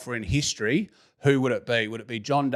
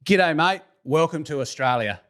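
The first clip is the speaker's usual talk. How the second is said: Australian accent demo; 2 semitones higher than usual. Shown as a demonstration. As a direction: model a broad Australian greeting. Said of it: "in your best Australian accent".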